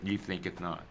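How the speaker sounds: scripture reading. Acted. Reader giving Luke twelve to responsive listeners, emphatic scripture reading. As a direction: proclaim each phrase deliberately, stretching key words.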